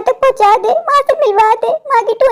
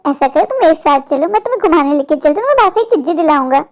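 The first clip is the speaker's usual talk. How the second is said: lower, fast coaxing voice of a shady man; sly stranger; 4 semitones lower than usual. Acted. Stranger coaxing a little girl to come along, sly and lower. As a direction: sweet-talk the child like a creep.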